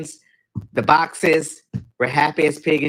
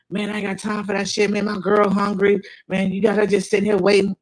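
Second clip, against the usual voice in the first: higher, heated complaint; going off; 6 semitones higher than usual. Retold or imitated. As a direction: rant at her, pitch raised. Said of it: "He's going off".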